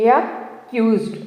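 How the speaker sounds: అక్యూజ్డ్ said slowly, split into chunks a-kyuzd; syllable by syllable. Shown as a demonstration. Teacher showing students how to chunk a word, slowly. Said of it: "విడదీసి పలకడం ద్వారా ఈజీగా pronounce".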